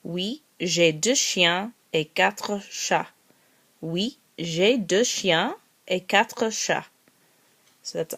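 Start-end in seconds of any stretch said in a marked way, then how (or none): 0.0-3.1 slow model sentence. Shown as a demonstration. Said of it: "the example I gave was". 3.8-6.9 slow model sentence. Shown as a demonstration. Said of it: "the example I gave was".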